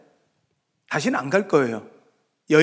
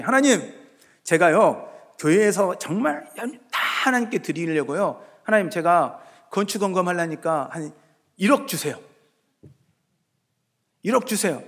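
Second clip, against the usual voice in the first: imitated prayer. Believer asking God for building-offering money, pleading in imitated prayer. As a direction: plead your case in a mock prayer. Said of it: "하나님께 기도해".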